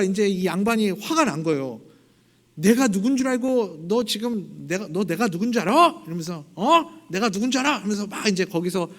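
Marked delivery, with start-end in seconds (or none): 2.5-6.0 hammed-up do-you-know-who-I-am outrage; slapped nobleman snapping at the queen, mildly shouted; mock angry yell. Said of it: "막 소리를 지르는 거죠". 6.5-7.8 much higher, loud outraged cry; indignant shout. Retold or imitated. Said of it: "막 소리를 지르는 거죠".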